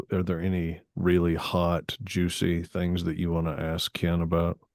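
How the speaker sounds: voice dropped low. Wrapping up the talk, asking the other speaker for juicy questions for the guest, lowered voice. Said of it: "like how I lowered my voice when I said that?".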